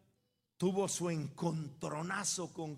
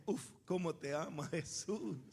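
tender reply; 3 dB quieter than usual. Retold or imitated. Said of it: "él me dijo".

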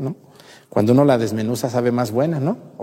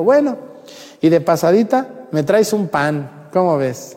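cheeky request; 5 semitones higher, slower than usual. Retold or imitated. Cheeky extra request for bread.

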